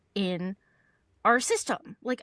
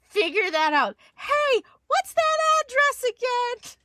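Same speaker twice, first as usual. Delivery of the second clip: higher and louder, hammed-up panicked embarrassment; flustered self-quote; 8 semitones higher, 5 dB louder, slower than usual. Caller realizing her mistake to the client, flustered and loud. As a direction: blurt it out flustered, half laughing at yourself. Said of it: "And I'm like".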